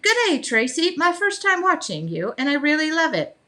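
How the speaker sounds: half-hearted Australian impression; mock Australian accent. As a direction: read it with a hint of a drunk pirate Aussie accent. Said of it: "Kathy said".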